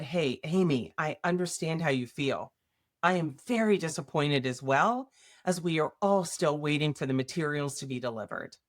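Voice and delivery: soft, reassuring reply to a colleague. Shown as a demonstration. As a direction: ease the tension, gently understanding. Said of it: "softer approach".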